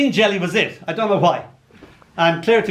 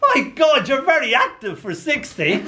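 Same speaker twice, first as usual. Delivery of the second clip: put-on astonished child; 9 semitones higher than usual. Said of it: "He gasps".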